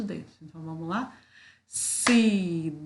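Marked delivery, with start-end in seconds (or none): 1.7-2.8 "Cidade" said louder, broken into ci-da-de to claps; loud syllable-beat demo for kids; loud clapped syllables. Shown as a demonstration. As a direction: clap out each syllable of "Cidade". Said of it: "ou batendo palma".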